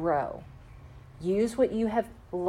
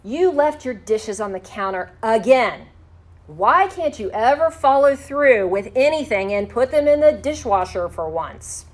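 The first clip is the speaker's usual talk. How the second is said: critical nagging complaint; 2 semitones higher, 6 dB louder than usual. Shown as a demonstration. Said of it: "So instead of saying".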